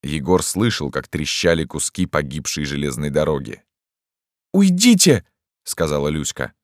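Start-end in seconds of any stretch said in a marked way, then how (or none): 4.5-5.2 put-on high, loud girl's cry; sharp command. A narrator's reading. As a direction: order them out in a raised voice. Girl orders intruders out.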